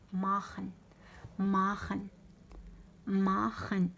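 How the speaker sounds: ماخن with long a, then a throaty fricative. Shown as a demonstration. Teacher models the verb three times, ماخن with kh. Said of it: "السي اش يتقرا خا".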